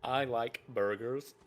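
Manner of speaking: slow mock American accent. Joking to his friend in a slow mock American accent. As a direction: drawl it out as a joke American. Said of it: "I might just put on an American accent".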